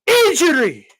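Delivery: whispered mock complaint; whispering. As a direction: whisper it like a feeble excuse. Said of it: "You know, like, Vitaly".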